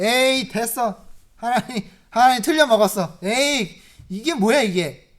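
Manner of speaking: mock disgusted outburst. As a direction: toss it away like a sulking man. Acting Job quitting God in disgust.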